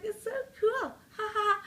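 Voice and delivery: high, laughing and giddy; joking, laughing. Retold or imitated. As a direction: giggle through it like grade eight. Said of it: "I'm joking around".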